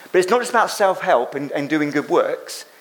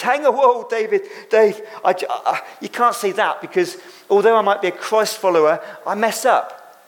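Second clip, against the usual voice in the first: higher, a mock protest to the preacher; raised, mock objecting listener; 3 semitones higher than usual. Congregant objecting to the preacher, mock protesting higher voice. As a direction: lightly play a doubter who butts in.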